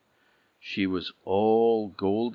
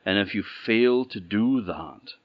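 prophesying princess; 5 dB louder than usual. Acted. Princess foretells the choices.

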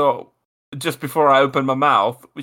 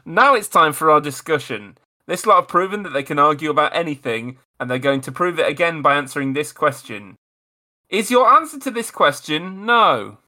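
game-show host read. Acted. Host reads game intro.

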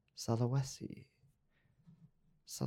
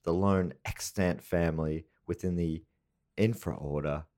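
put-on Latin accent; 2 semitones lower than usual. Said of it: "Is that a Latin accent?".

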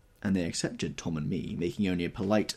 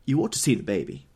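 airy Daisy voice; 5 semitones higher, 5 dB louder than usual. Acted.

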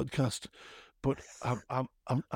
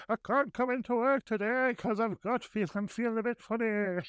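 mock sick caller; 8 semitones higher than usual. Mock sick call to work.

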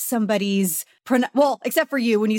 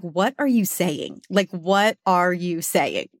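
retold bafflement; 3 semitones lower, slower than usual. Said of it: "and she's like".

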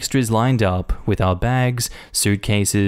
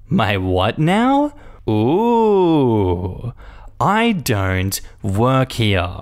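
incredulous; much slower than usual. Retold or imitated. Narrator's incredulous reaction.

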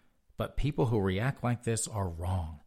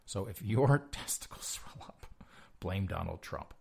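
a hushed, giggly aside; conspiratorial whisper with a chuckle; mock whisper; 3 dB quieter than usual. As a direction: lean in and breathe it through a laugh.

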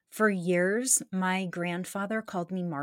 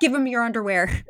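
loud, higher, through laughter; amused mock command; laughing quote; 4 semitones higher, 6 dB louder than usual. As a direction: blurt out the order while cracking up. Quoting show line amid shared laughter.

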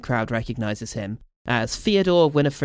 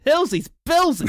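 swooning shriek; 14 semitones higher, 3 dB louder than usual. Acted. Swooning mum voiced in scene.

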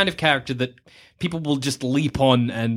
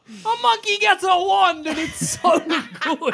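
delighted gushing; 14 semitones higher, slower than usual. Real, not acted. Gushing about monkey scene, laughing.

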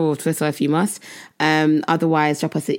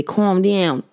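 put-on New York accent. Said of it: "if you're from New York".

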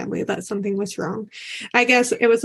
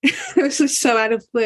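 laughing disbelief; 5 semitones higher than usual. Real, not acted. Laughs recalling the breakup.

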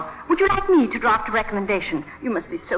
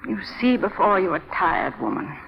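mock weary helplessness. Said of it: "Helpless and clinging".

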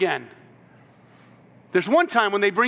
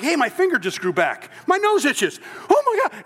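excited; 4 semitones higher than usual. Acted. Healed leper reacting, acted.

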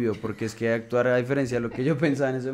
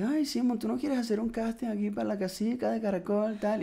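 much higher, sing-song invitation; high girly voice; 11 semitones higher than usual. Retold or imitated. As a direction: lift the voice high like an excited girl. Sister's friend invites him, voiced.

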